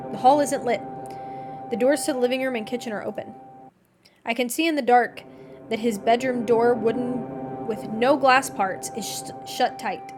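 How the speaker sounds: measured, even reading aloud; story narration. A narrator's reading. Narrator tells of visiting him, measured story reading. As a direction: read the tale out evenly, in first person.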